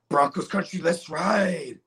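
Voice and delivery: firm, earnest slogan read. Pretend. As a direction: say the slogan as if you mean it. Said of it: "do it with some more conviction".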